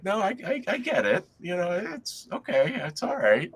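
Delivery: high, amused woman's voice; laughing professor. Retold or imitated. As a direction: forgive him while laughing it off. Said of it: "and she's like".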